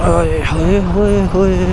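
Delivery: high, slow, stretched cheer of delight; drawn-out happy whoop; excited cheer. Real, not acted. Rider arriving in Manali cheers at the view, excited and slow.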